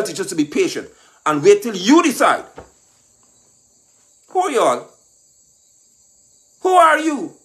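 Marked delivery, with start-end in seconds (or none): 4.3-7.3 mock incredulous. Mocking challenge.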